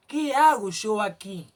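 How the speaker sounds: pregunta interior más fuerte y lenta; preguntándose a sí mismo. Retold or imitated. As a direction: como quien se despierta y se pregunta en voz alta. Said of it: "me pregunto a mí mismo". (voz de pregunta interior, lenta y fuerte)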